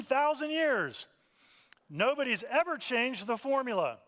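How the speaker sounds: loud, high TV-commercial hype as Moses; cheesy ad pitch. Retold or imitated. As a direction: sell it like a corny infomercial. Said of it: "he was making a joke about if there was such a thing as advertising".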